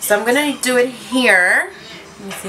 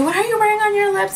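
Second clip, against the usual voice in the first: imitating customer; 12 semitones higher, faster than usual. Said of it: "they'll ask me".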